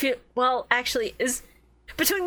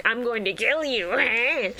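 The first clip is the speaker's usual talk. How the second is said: mock menacing Merrick; much slower than usual. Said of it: "Merrick just kinda hates everybody".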